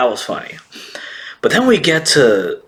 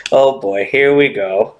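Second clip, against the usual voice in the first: wry dread; 2 semitones lower than usual. Retold or imitated. Viewer reacting as Big Mom gets thrown away, wry dread.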